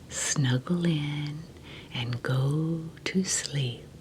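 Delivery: slow soothing bedtime whisper; right in your ear. Acted. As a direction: lull the kids to sleep, very slowly. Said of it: "this is Baba Nini saying".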